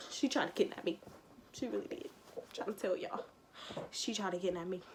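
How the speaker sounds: hushed insistence. Real, not acted.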